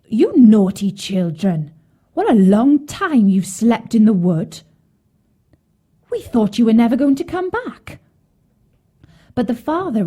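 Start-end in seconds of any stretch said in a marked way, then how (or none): 0.1-8.0 exclaiming stepmother. A narrator's reading. Woman opens the door to the children, loudly exclaiming. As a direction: cry out in narrated reproach. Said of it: "she exclaimed".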